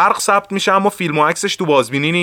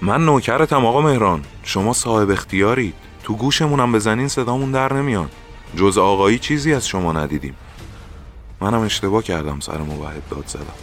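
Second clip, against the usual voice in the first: magnanimous, humble deference. A narrator's reading. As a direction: reassure a superior and own your mistake. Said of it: "بزرگ منشانه شانه هایم را فشرد".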